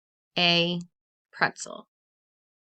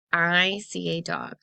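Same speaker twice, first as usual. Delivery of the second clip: slow, careful example read; read as an example sentence; 3 semitones lower, 3 dB louder, slower than usual. Shown as a demonstration. Teacher to class, slow clear example reading. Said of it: "just like here".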